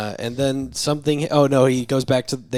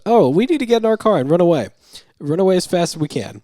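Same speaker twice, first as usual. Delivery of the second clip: panic; 8 semitones higher, 6 dB louder, faster than usual. Retold or imitated. Panicked doctor fleeing retold.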